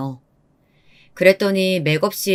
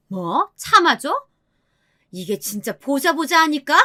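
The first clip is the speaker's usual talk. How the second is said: high-pitched angry disbelief; indignant mother-in-law; 7 semitones higher than usual. A narrator's reading. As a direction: take offence, voice shooting up. Mother-in-law provoked in quarrel.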